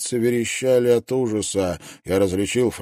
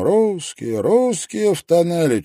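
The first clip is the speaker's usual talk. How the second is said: shouting while running; 9 semitones higher, 3 dB louder than usual. A narrator's reading. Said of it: "на бегу крикнул нам".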